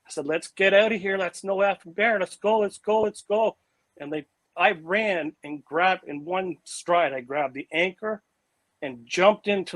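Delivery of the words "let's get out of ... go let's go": panicked yell. Retold or imitated. Fleeing the creature, urging friends.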